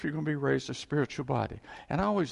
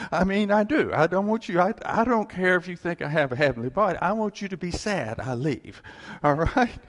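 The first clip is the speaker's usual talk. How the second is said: emphatic personal plea; 4 semitones higher, 6 dB louder than usual. Real, not acted. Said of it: "that's just me".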